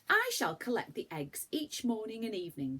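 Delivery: put-on bright, eager little girl; looking forward to the eggs; happy child. Franny tells her family happily. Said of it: "said Franny happily".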